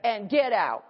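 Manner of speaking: slow, loud firm command. Retold or imitated. Preacher ordering the devil out, slow and loud. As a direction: lay down the order word by word. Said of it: "But I did have".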